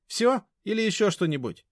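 high, loud, rude woman; scornful high-pitched brush-off; impatient dismissal. A narrator's reading. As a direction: hurry him along. Mashka dismissing the visitor.

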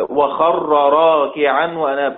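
slow recitation of وخر راكعا وأناب; slow tajwid reading; verse recitation. Shown as a demonstration. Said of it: "teacher recites example verse".

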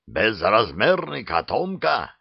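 usual speaking voice

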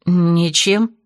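squeezed out, a hint of panic; выдавила с трудом. A narrator's reading. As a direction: force the word out reluctantly. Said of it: "кое-как выдавила из себя я". (с трудом выдавливая)

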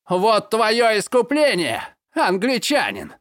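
злой крик со слезами в голосе; выкрикнуть, сдерживая рыдания; крик сквозь рыдания. A narrator's reading. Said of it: "прокричал Жерар, рыдая от". (гневный крик сквозь слёзы)

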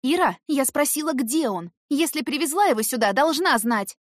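angry demand. A narrator's reading. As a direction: press her hard for the answer. Heroine demanding answers from Irka.

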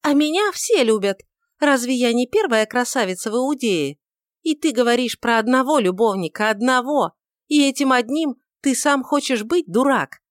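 high, loud taunting; young woman jeering at her lover; mocking proud young woman. A narrator's reading. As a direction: cut him down with scorn. Judith boasts and insults.

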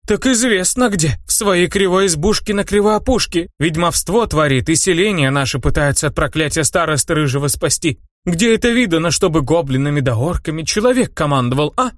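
high crone voice crying out an accusation; accusing old crone. Acted. Old witch-woman denouncing the hero to villagers, shrill accusation. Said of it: "не унималась мудрейшая".

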